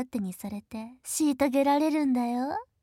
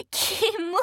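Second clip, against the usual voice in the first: disgusted; 6 semitones higher than usual. Acted. Sister disgusted at brother.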